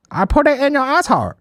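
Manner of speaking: high-pitched crude mock-Asian accent; vaguely Asian accent. Doctor with the swab, in a crude mock-Asian accent. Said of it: "Don't know what accent that is. Vaguely Asian and racist".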